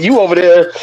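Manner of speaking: high-pitched teasing compliment; cheeky, rising admiration; playful hype. Real, not acted. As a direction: hype your friend up, pitch climbing into a question. Teasing friend about his weight loss.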